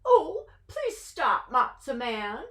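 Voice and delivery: mild coo of a doting aunt. Acted. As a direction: coo sweetly at him. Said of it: "cooed Auntie Bertha".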